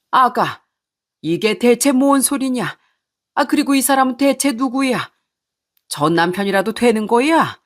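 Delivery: jolted, raise the voice in disbelief; startled old man. Acted. Old father startled at the stranger, shocked high cry. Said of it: "깜짝 놀라하며 소리를 쳤습니다".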